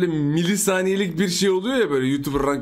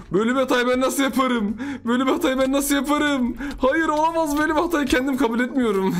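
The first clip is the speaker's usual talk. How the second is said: high-pitched, dramatic self-scolding; hammed-up dismay, pitched high; mock self-reproach; 7 semitones higher than usual. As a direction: overplay your horror at your own mistake. Mock self-reproach, laughs after.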